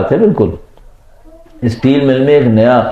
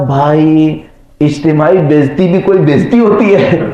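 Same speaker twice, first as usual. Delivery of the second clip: mock incredulous; 4 semitones higher than usual. Colleague brushing off the manager's humiliation, mock incredulous. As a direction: voice climbing high on the punchline.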